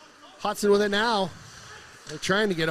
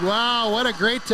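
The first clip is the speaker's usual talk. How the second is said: raised, louder wow; thrilled by the goal; excited; 4 semitones higher, 3 dB louder, slower than usual. Real, not acted. Great tip leads to goal.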